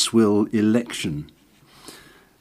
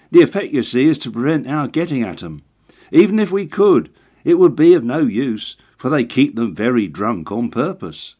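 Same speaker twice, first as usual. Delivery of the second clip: lightly voiced agent; 3 semitones higher than usual. Perker voiced as a character.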